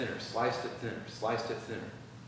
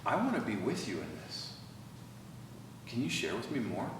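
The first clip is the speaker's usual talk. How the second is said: empathetic tone; 4 dB quieter than usual. Shown as a demonstration. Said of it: "it's a tone of".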